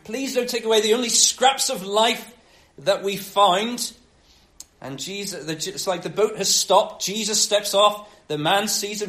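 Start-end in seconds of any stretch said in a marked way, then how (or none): 0.0-3.9 raised, urgent plea; begging. Acted. Demons begging Jesus not to send them away, pleading. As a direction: plead for mercy with a higher voice. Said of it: "so they beg him".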